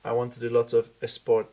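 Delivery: mock Spanish accent, "esport" for sport. Showing how Spaniards say S words, Spanish accent. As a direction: put an E in front of "sport", Spanish-style. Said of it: "can't say an S word without an E in front".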